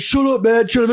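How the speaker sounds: high tearful outburst; mock meltdown yell. Ridiculed kid snapping at the others, high mock tantrum.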